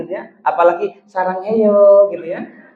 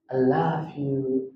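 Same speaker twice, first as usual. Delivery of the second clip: drawn-out, softer "I love you", each word lingering; slow tender love you; 4 semitones lower, 7 dB quieter, much slower than usual. Shown as a demonstration. Old husband answering his wife, slow and tender. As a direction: breathe it out slowly, lovingly. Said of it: "agak beda gitu bilangnya".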